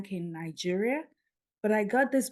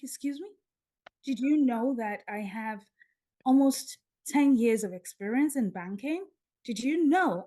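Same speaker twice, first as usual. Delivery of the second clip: higher-pitched, mildly affronted comeback; indignant retort; 4 semitones higher, 4 dB louder than usual. Retold or imitated. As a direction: protest proudly, voice lifting on the questions. Proud retort to job offer.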